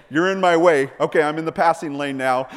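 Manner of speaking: mock annoyed driver. Jesus joking as he passes the rowing disciples. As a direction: play it like a driver overtaking.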